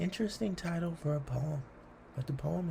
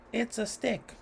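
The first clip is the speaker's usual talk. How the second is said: Gary's scoff; 8 semitones higher than usual. Acted. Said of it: "says Gary".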